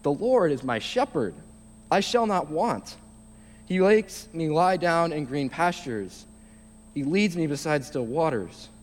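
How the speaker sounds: measured, reverent reading of the psalm; scripture reading. Acted. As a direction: read it like a gentle recital from the pulpit. Reads Psalm 23 aloud.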